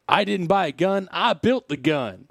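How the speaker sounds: lightly voiced twangy accent, slowing down; a hint of a drawling accent on the quote; mild mock accent for a convicted man; put-on accent. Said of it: "I'm assuming that accent".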